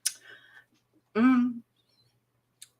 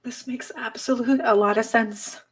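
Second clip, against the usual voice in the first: tearful; 3 semitones higher than usual. Real, not acted. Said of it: "It's so hard for me to form words right now".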